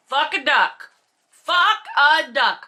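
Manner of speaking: slow, drawn-out disbelief; exasperated. Real, not acted. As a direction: stretch each word in exasperation. Repeated exasperated exclamation.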